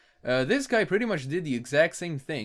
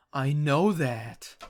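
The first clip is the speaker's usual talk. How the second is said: slow cartoon pony voice; much slower than usual. Reading comic dialogue aloud.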